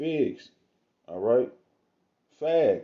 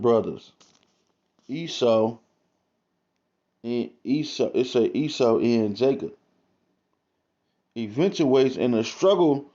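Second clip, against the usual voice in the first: slow, raised declamatory reading; emphatic read-aloud; 3 semitones higher, 3 dB louder than usual. Acted. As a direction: read it out deliberately, phrase by phrase. Reads book prelude aloud.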